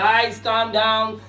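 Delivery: calming a noisy crowd. Acted. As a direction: draw it out to hush a room. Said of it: "बहुत ज्यादा शोर मच रहा है".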